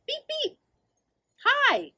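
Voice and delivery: high chirpy beep-beep greeting; truck honk. Acted. Little truck calling out to the school bus, high and bright. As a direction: honk hello to the passing bus.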